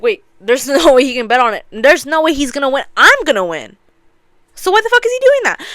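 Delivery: rising, high-pitched mock bewilderment; acted disbelief. Gambler baffled by his rival's bet, mock disbelief. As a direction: build to a high, loud, baffled outburst. Gambler's alarmed reaction, retold.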